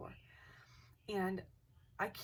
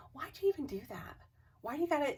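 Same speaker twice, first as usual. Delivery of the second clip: higher and louder, exasperated complaint; exasperated mom; 8 semitones higher, 4 dB louder, faster than usual. Retold or imitated. Mom turning around blaming her for the breath, exasperated. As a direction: sound fed up with your kid.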